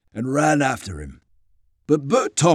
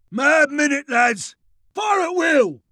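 high battlefield command; shouted fire order; 13 semitones higher, slower than usual. A narrator's reading. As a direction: call out to the riflemen. Sergeant gives order to fire.

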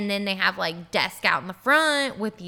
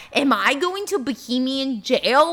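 higher, louder, drawn-out mock panic; retold freak-out; 4 semitones higher, 6 dB louder than usual. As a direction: replay your panicked disbelief, without real tears. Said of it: "starting to bawl my eyes out".

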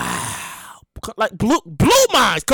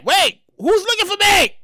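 put-on confused drunk voice; 6 semitones higher than usual. Drunk raising hand.

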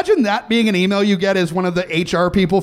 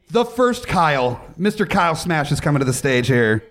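announcer voice. Acted. Introduces next guest with epic titles.

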